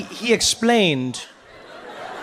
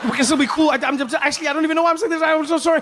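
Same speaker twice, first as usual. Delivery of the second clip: higher, rushed nervous apology; flustered guest apologising to the president; frazzled babbling; 5 semitones higher, faster than usual. Retold or imitated. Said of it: "So now I'm here and I'm frazzled".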